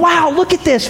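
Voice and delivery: high, delighted wow; excited wow. Retold or imitated. Disciples at the miracle, high and amazed. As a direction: gasp at the wonder of it. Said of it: "They're like".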